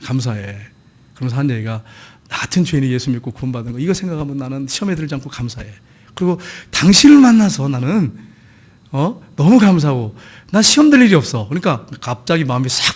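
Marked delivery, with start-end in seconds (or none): 0.0-11.5 tender husband. Retold or imitated. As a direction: soothe an upset wife lovingly. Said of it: "그래서 그러더래".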